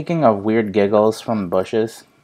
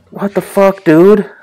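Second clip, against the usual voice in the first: higher, louder incredulous yell; dad yelling at his son for flinging a frog; exasperated outburst; 9 semitones higher, 9 dB louder, slower than usual. Retold or imitated. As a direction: yell it at the kid in disbelief. Retelling reaction to flung frog.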